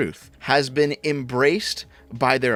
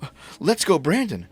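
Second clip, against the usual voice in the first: higher, pearl-clutching parody; mock outrage; 5 semitones higher than usual. Vlogger mocking critics of Let's Go Brandon, higher mock dismay. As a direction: play a scandalized leftist. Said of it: "you're like".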